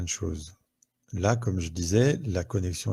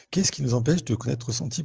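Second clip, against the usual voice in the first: repeated faster and higher after a laugh; quicker, higher repeat; 4 semitones higher, faster than usual. Shown as a demonstration. Host repeats question to viewers, faster and higher. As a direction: rattle it off again, brighter. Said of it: "Deuxième question".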